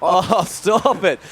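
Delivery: drawn-out, disbelieving exclamation; amazed reaction. Real, not acted. Commentator reacting to Frenzy's finish, amazed. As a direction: draw it out slowly in amazement.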